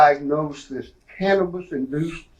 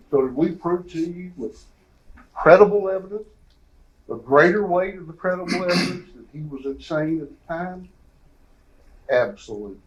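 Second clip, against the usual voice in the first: passionate closing argument; 3 semitones higher than usual. Real, not acted. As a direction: press the jury for the verdict. Defense's rhetorical climax to jury.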